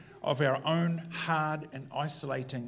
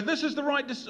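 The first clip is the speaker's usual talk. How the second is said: mock certainty; 11 semitones higher than usual. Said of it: "And other times I go".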